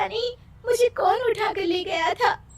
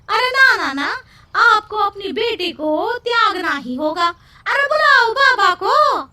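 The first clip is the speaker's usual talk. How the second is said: agitated shout; 3 semitones higher, 3 dB louder than usual. Acted. Villager demanding the baba.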